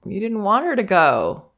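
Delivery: put-on teacher soothing a crying toddler; acknowledging teacher. Shown as a demonstration. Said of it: "All I say is what I'm getting from the child".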